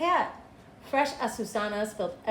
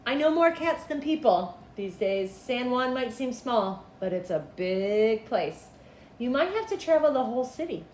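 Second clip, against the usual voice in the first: put-on old cat lady; 3 semitones higher, 4 dB louder than usual. Old woman who feeds cats advising the searching boy. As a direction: advise the boy like a wise elder.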